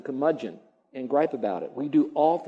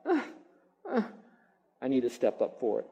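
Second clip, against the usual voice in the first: mock grudging groans; 3 semitones lower, 8 dB quieter than usual. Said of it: "God says".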